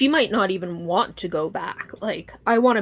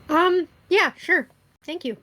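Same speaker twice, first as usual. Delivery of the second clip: amused; 9 semitones higher than usual. Real, not acted. Laughing reply after the joke.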